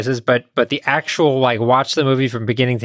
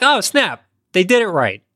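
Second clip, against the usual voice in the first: retold surprise; 5 semitones higher than usual. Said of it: "And I was like".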